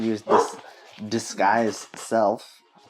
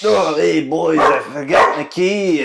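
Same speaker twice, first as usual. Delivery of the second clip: lightly voiced gruff boss; 3 semitones higher, 5 dB louder than usual. Player voices disguised Gunther.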